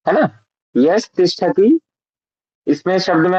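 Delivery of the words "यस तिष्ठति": यस तिष्ठति, slow, यस then तिष्ठति; slow split reading. Shown as a demonstration. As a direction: read यस straight, no ई on सा. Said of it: "यस पढ़िए सीधा". (धीरे से यस, फिर तिष्ठति)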